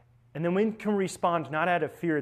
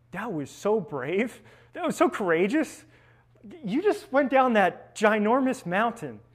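encouraging praise; 5 semitones higher than usual. Retold or imitated. Praising a crying child.

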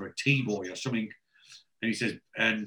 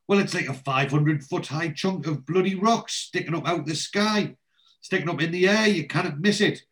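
higher-pitched exasperated disbelief; acted exasperation, pitched up; incredulous; 6 semitones higher than usual. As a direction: spell out the obvious in disbelief. Oz acted, incredulous at lost friends.

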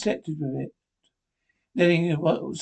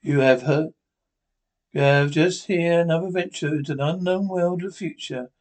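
announcer sign-off. Acted. Announcer closing the radio episode, measured sign-off. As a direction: sign off the show with weight.

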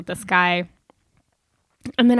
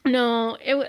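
talking while gagging; 3 semitones higher, slower than usual. Real, not acted. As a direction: choke back a gag mid-word. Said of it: "she's literally gagging".

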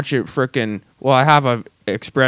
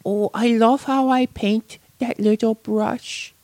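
high, slow, goofy croon; Adam Sandler-like silly voice; 10 semitones higher, 4 dB quieter, slower than usual. Retold or imitated. Co-host mocking arts lover painting, goofy high voice. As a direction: draw it out softly in a silly high voice. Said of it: "Are you doing Adam Sandler right now?".

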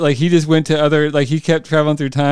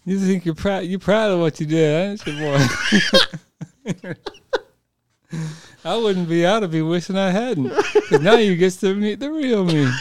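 mock southern villain; 4 semitones higher than usual. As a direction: sneer it like an old southern boss. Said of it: "Oh, yeah".

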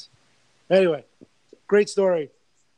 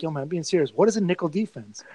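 Brett Favre twang. Retold or imitated. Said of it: "that Brett Favre kind of twang".

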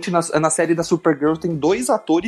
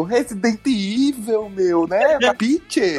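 put-on paulista Italian accent; 5 semitones higher, much slower than usual. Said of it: "me dá um sotaque de italiano".

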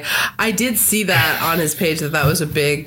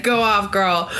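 laughing cheer. Retold or imitated. Cheering on Jane mockingly.

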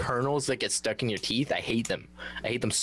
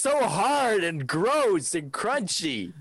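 disgusted; 8 semitones higher, much slower than usual. Real, not acted. Disgusted at kettle chips.

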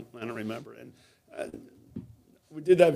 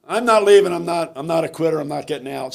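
mad, defiant; 3 semitones higher, 7 dB louder than usual. Retold or imitated. Swimmer refusing coach's offer to go home, mad and defiant. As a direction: imitate an athlete angrily refusing to quit. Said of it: "I think she was mad at me".

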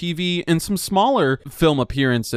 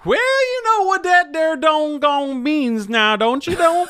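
put-on hick Southern accent; 12 semitones higher than usual. Host announcing the hot take in hammed-up hick twang. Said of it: "You've gone really, really hick".

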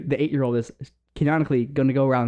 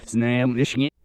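backwards speech. Shown as a demonstration. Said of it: "I'm gonna read something in English, and you can do it backwards".

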